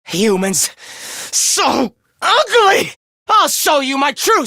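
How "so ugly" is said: high, drawn-out contempt; scornful. Acted. Fighter sneering at humans, high drawn-out scorn. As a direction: stretch it out slowly in high disgust.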